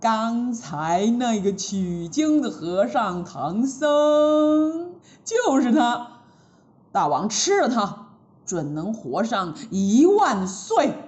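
slow, sly, tempting villain; scheming demon. Acted. Demon Taoist tempts the king to eat the monk, slow and sly. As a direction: coax the king with a wicked idea.

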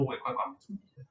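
soft retelling of a father's admission; hushed, weighty fatherly words; earnest, heartfelt. Retold or imitated. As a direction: quote it quietly and sincerely. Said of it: "他就很语重心长地这样讲".

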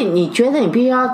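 normal talking voice

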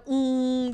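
drawn-out mimicked hum; door-sliding hum. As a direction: hum like a door easing open. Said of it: "又打开".

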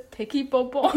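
giggling through a cutesy "take it bobo"; cute baby talk broken by laughter; laughing cutesy baby talk. Shown as a demonstration. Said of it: "比如".

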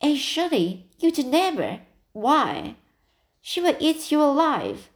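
put-on girl horrified her friend will face the old lady; shocked. A narrator's reading. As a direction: gasp at a friend's daring plan. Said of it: "Dinah stared".

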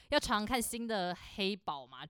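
slow, flat cashier script; scripted upsell line. Retold or imitated. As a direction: recite the upsell like a bored cashier. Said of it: "我们就会有个S O P".

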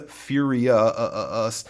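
"furia, uh, uh, us" broken up to show the uh; isolated vowel sound. Shown as a demonstration. Teacher shows the matching sound, "uh" repeated alone. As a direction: pull the uh out of "furia... us". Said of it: "that sound".

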